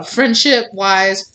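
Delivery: real little crack in the voice. Real, not acted. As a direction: voice cracks on friendship-wise, slow. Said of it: "voice broke right there when I said friendship".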